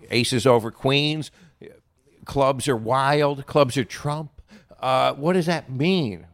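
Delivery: slow, deadpan mock puzzlement; mock confusion. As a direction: drag it out, feigning not to understand. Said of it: "And I said".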